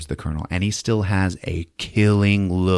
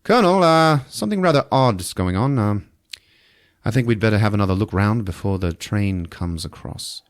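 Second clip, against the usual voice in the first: voicing the character. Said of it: "He walks down the bridge to Colonel Saito".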